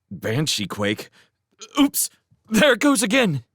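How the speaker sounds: high, loud, rattled voice; alarmed. Acted. Showen, startled by the tremor, calls out alarmed. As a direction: sound shaken and urgent.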